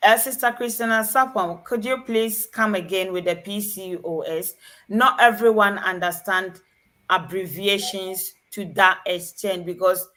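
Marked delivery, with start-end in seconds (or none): none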